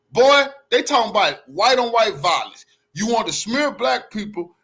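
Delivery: loud, indignant outburst; shaking with anger. Real, not acted. Ranting about the debate.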